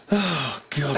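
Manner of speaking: mock sigh of frustration; a girl's fed-up exhale, played lightly; imitating an exasperated groupie's exhale; frustrated exhale. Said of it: "it's a big exhale of frustration".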